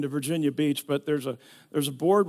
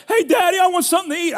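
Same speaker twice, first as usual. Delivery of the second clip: put-on whiny kid; 13 semitones higher, 8 dB louder, much faster than usual. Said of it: "our kids would say".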